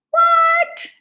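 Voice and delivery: sudden high, loud disbelieving "What?"; surprised what. Real, not acted. Teacher reacting to pools full of sprinkles, amazed. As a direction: jump up in pitch, amazed.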